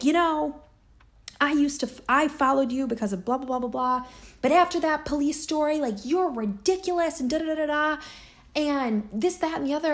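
high, loud mocking voice of the angry commenter; mocking critic. Mocking the woman who came at her online, high and loud.

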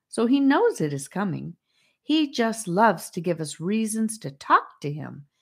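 lilting, up-and-down storybook chatter; sing-song. A narrator's reading. Hymnia hurries the newcomers along, in sing-song. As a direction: lilt through it like a little tune. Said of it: "she explained in a sing-song voice".

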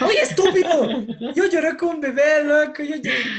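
laughing hard through the words; cracking up while admitting he cried; real laughter over the story. Real, not acted. Laughing while recounting crying.

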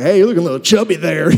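quick, playful jab; mock blunt teasing. Spouse teasing partner about weight, quick mock bluntness. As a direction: tease them about the extra weight. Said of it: "You gotta be like".

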